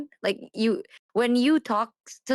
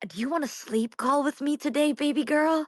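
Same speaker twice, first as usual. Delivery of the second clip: soft lazy flirty drawl; 4 semitones higher than usual. Retold or imitated. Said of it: "Like, those".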